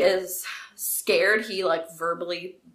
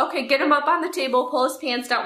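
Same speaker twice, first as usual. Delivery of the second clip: brisk, curt nurse's order; imitating a cold, businesslike nurse; all business; 6 semitones higher, faster than usual. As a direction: rattle off instructions without any greeting. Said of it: "all business".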